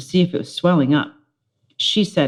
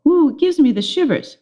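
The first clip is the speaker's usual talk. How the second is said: put-on gushing girl; 9 semitones higher than usual. Judy gushing.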